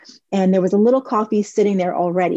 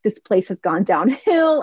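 complaining. Retold or imitated. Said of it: "complaining to the daughter".

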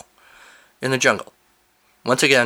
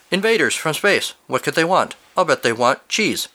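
animated story narration; 5 semitones higher than usual. Acted. Reads listener's story aloud.

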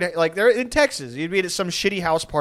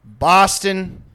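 louder, slow "Boston, Massachusetts"; insistent drunk; 4 dB louder, much slower than usual. Retold or imitated. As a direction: spell it out to the idiot, drawn out. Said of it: "He goes".

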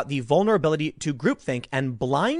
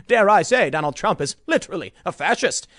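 snooty elitist. Retold or imitated. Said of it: "snooty elitists sitting there going".

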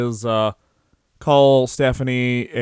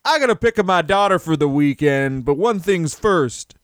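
lightly voiced bald mustached man finishing a cigarette; Barry Darsow; 3 semitones higher than usual. Host playing a wrestler as weary dad, mock promo. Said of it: "finishing a cigarette being like".

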